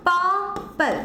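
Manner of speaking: পার্পল split, long পার then short falling পল; stress on first syllable. Shown as a demonstration. Teacher sounding it out while writing, পার্পল broken after stressed পার. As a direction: hold পার, pause, then drop পল in পার্পল. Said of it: "পারের ওপর দেখো বেশি জোর পড়ছে".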